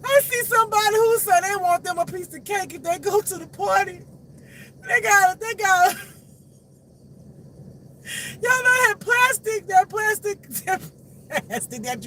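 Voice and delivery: high, loud, laughing through the words; squealing with real laughter; cracking up. Real, not acted. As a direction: tell it while helpless with laughter. Cracking up while telling story.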